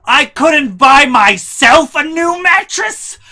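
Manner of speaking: high, loud, slow shrieking outrage; hammed-up furious mom. Mom calls the Banshee, furious. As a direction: wail it like an offended mom.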